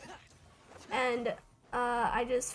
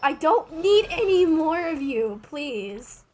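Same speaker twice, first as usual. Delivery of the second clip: slow, louder frustrated pleading; raging gamer; 4 dB louder, slower than usual. Real, not acted. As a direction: complain slowly at the game. Pleading against more Xianglings.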